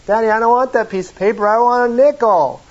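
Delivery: hammed-up tantrum over a nickel; mock crying little girl. Preacher playing the little girl refusing the twenty, hammed-up wailing. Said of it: "she starts crying".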